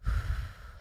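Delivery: long shaky breath out; a real sigh before going on; heavy sigh. Real, not acted. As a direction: let out a heavy unvoiced sigh. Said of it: "go ahead and breathe".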